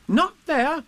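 high, loud, startled question; alarmed boy. A narrator's reading. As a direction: echo it in disbelief as a child.

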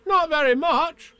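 put-on very high, drawn-out child's reply; young boy's voice. A narrator's reading. Boy lets Pooh down about the disguise, high child voice. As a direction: answer in a piping boyish voice.

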